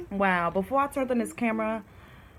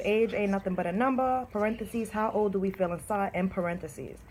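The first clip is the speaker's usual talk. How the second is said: poem reading. Shown as a demonstration. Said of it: "I'm gonna read my poem to you all".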